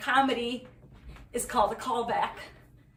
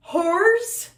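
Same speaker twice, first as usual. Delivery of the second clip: high, loud punchline question; punchline yell; 8 semitones higher, 6 dB louder than usual. Acted. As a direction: shout the word like a reveal.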